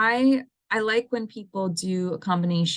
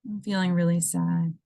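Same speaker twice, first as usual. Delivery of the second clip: sad with a sigh. Shown as a demonstration. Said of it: "using kind of that emotional emphasis".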